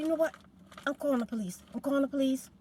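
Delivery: mad threat. Retold or imitated. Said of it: "I was so mad".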